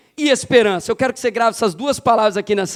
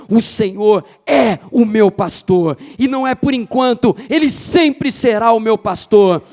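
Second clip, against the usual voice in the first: impassioned declarations punched out to a congregation; forceful preaching; 3 dB louder than usual. Real, not acted. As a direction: preach with conviction, driving each phrase home. (pregação enfática, com convicção)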